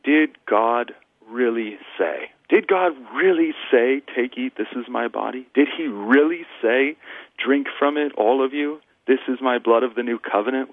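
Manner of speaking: serpent's doubting voice. Retold or imitated. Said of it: "a voice that says in some".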